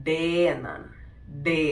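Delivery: ഡേ as "day", long e; German letter D. Shown as a demonstration. Teacher demonstrating German D. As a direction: say ഡേ like "day", not "dee". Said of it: "ഡി നമ്മൾ pronounce ചെയ്യുന്നത്".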